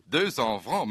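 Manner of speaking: deux cents francs repeated as a rising question; naive, rising question; puzzled repeat. Retold or imitated. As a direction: echo the price without understanding it. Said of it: "zei ik".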